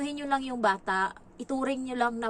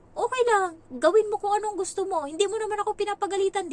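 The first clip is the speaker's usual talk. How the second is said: much higher, louder, shrugging tone; dismissive self-quote; 10 semitones higher, 5 dB louder than usual. Retold or imitated. Nanny replays telling the boy to do as he likes, high and dismissive. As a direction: wave it off, not your problem. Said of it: "Sabi ko".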